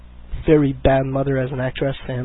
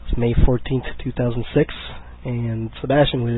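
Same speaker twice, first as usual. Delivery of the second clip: hoarse from a cold; talking through a sore throat; sick voice; 4 dB louder than usual. Real, not acted. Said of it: "crazy, sexy, sick voice".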